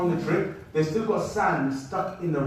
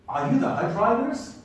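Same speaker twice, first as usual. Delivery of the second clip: imitated American kid, higher pitch; funny American voice; 6 semitones higher than usual. Little kid asking a traveller at the airport, imitated American accent. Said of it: "in a funny American voice".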